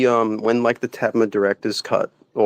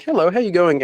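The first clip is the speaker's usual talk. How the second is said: higher, mock Australian greeting; 6 semitones higher than usual. Friend voices a passenger greeting Thomas, mock Australian accent. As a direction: chirp it like a friendly Aussie. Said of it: "he's like".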